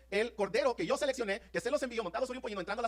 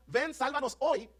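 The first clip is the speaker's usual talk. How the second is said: crowd's cry; 4 semitones higher than usual. Retold or imitated. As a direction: voice the crowd's plea. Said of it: "Le están diciendo".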